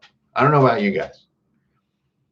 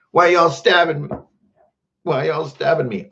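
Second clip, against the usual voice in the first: higher-pitched, pretend-hurt complaint; mock wounded protest; 5 semitones higher than usual. Streamer asking viewers why they stab him, mock wounded. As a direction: protest as if being stabbed. Acts being stabbed by viewers.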